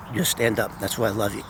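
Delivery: low, hushed retold approval; soft and low, fondly conceding; quiet affection. Boss relents, then hugs him.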